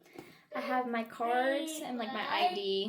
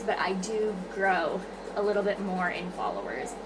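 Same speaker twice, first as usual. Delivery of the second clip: breathy. Real, not acted. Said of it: "sorry if I sound really breathy".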